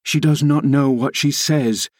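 high-pitched, agitated rebuke; passionate scolding. A narrator's reading. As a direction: scold him in desperate urgency, pitch climbing. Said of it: "I said passionately".

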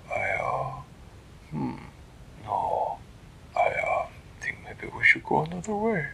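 halting, whispered high voice; unsure, backing off; hesitant Flippertigibbet. Acted. Flippertigibbet hesitating about the snake sound, hushed.

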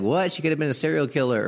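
incredulous high-pitched "What?", then rushing on; shocked kid. Acted. Grandkid hearing how the grandparents met, shocked and incredulous. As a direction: blurt it out high and fast in disbelief. Acted shocked reply to parent's story.

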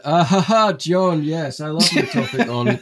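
hammed-up bright fake enthusiasm with a laugh; exaggerated cheesy interviewer voice; mock podcast host voice. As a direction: gush like a try-hard host.

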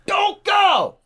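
urgent shout to someone in danger; shouted warning. Acted. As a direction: yell it high and loud. Shouted warning at film victim.

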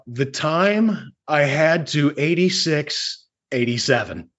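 slow, deliberate build to a punchline; slow pun delivery. Pretend. Host delivers his pun to the co-host, slow and deliberate. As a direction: stretch it out slowly, then drop on the end.

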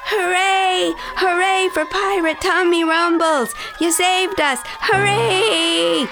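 high, jubilant crew cheering; shouted cheer. A narrator's reading. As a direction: cheer the hero in a high, ringing voice. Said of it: "shouted pirates Josh".

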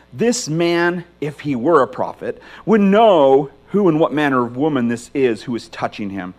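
measured reading of the Gospel to the congregation; scripture reading. Acted. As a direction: pastor reading Luke aloud, steady and reverent. Reads scripture passage aloud.

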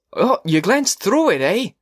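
high, slow mocking echo; sneering old teacher; sarcastic. A narrator's reading. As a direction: throw his words back at him with scorn. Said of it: "he said, very sarcastically".

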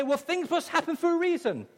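mock platitude. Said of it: "we try and say".

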